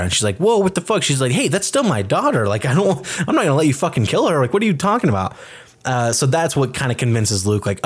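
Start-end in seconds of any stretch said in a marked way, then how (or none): 0.4-1.0 protesting mother. Retold or imitated. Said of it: "the mom steps in and stops Pandora". 1.3-5.4 protesting mother. Retold or imitated. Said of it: "the mom steps in and stops Pandora".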